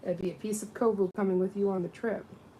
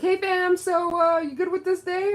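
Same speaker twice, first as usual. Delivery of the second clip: much higher, much louder hype greeting; coworker's greeting; 11 semitones higher, 11 dB louder than usual. Retold or imitated. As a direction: shout it like a friend across the clinic. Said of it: "she'll be like".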